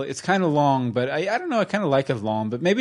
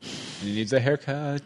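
Pinocchio voice; 7 semitones higher than usual. Retold or imitated. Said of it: "then he looks out and he's like".

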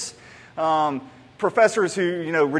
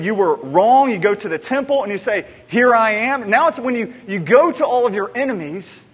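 rising, louder, insistent; mock triumphant demands; 4 dB louder than usual. Preacher voicing the crowd's plan, louder and pushier. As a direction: sell the plan with building zeal.

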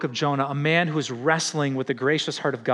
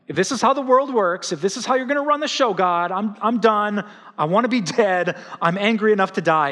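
raised, heated complaint at God; mock angry Jonah; 5 semitones higher, 3 dB louder than usual. Jonah ranting at God, mock furious and high. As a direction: whine it up high like a sulking prophet. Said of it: "He's apparently so ticked".

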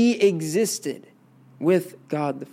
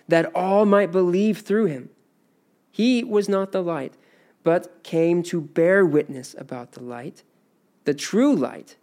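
measured Bible reading, slightly raised; scripture reading. Acted. Teacher reading John's gospel aloud, measured.

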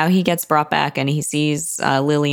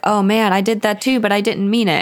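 guilty excuse; 6 semitones higher than usual. Acted. Man guiltily confessing to the bells.

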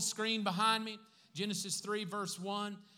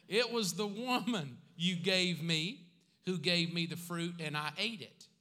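blame-shifting Adam; 4 dB louder than usual. Retold or imitated. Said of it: "The man replied".

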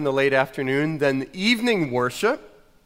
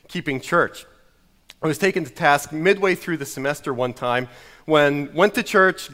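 normal talking voice

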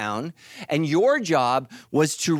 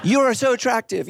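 flirty Australian voice; 6 semitones higher, 3 dB louder than usual. Retold or imitated. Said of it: "a female from Australia".

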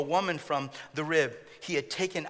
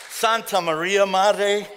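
mock exasperated exclamation; 8 dB louder, much slower than usual. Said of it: "they hit their thumb".

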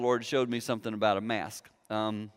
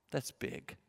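hushed whisper; 14 dB quieter than usual. Real, not acted. Preacher pressing the point on the congregation, whispered. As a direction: whisper it, much softer.

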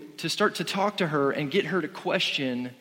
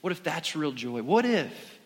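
lightly voiced serpent luring with questions, softer; sly tempting serpent; 4 dB quieter than usual. Preacher voicing Satan tempting Eve, softer and sly. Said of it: "Satan is starting to say".

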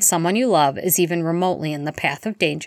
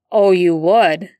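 slow, louder, icy retort; cold steel; 7 dB louder, slower than usual. Acted. Remus answering Barty coldly, slow and hard. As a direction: cut him down with steel. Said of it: "so cold and so much like steel".

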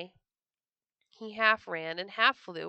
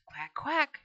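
higher-pitched mother duck's call; calling duck quack; 6 semitones higher, 3 dB louder than usual. A narrator's reading. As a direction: quack as if summoning the brood. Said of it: "But she called".

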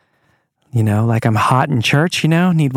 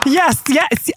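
mock cheering; 13 semitones higher than usual.

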